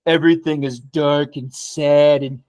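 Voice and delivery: light, slow presidential impression; slow down into a slight political caricature; Donald Trump. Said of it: "my Donald Trump voice right there".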